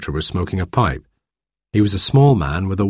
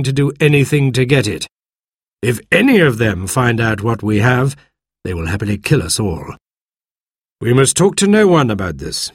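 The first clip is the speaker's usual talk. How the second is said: lightly voiced stern doctor; 3 semitones higher than usual. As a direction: caution him firmly. Doctor warns the squire.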